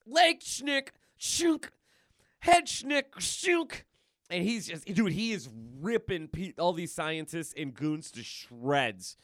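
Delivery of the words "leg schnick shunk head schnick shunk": high, loud slashing sound effects; gleeful attack calls. Acted. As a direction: call out each stab with relish. Acting Deadpool's claw attacks.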